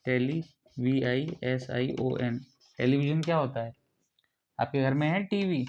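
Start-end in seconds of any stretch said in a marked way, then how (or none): 0.0-2.4 slow spelling out. Shown as a demonstration. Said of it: "टी for टेलीविजन".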